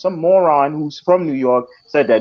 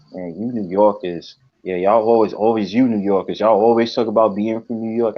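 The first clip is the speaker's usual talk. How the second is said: mocking commenter; 7 semitones lower than usual. YouTube commenters mocking New Yorkers.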